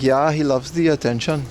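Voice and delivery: badly faked German accent; loose, uncertain mock German accent. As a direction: imitate a German dog owner, accent slipping. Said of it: "It's supposed to be German".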